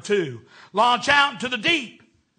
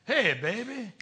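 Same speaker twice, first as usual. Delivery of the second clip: groovy talk; 5 dB quieter than usual. Retold or imitated. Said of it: "We'd snap our fingers".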